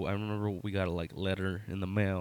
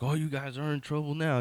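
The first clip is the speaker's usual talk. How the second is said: a hint of a finger-wagging guard, pitched higher; mock scolding; 6 semitones higher than usual. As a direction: tease them like a scolding guard. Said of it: "the whole finger wagging".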